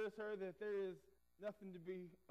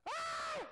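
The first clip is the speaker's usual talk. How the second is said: put-on piercing high child's scream, full voice; blood-curdling scream; 7 dB louder than usual. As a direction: let out a terrified little girl's shriek. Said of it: "this blood-curdling scream".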